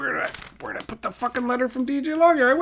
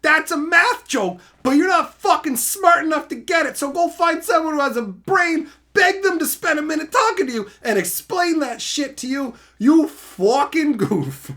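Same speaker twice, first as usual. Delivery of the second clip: rip into him for a laugh; hammed-up rant; mock roast; 4 semitones higher than usual. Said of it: "Insult complete".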